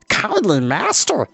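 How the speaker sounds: high, slow creature voice crying out; beast-companion voice, eager cry; crying out as Gurgi. A narrator's reading. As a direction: call eagerly to the master as a small furry creature. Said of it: "he cried".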